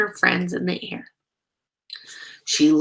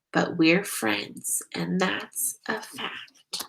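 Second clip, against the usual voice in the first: tender; 5 dB quieter, slower than usual. Acted. Gentle story ending.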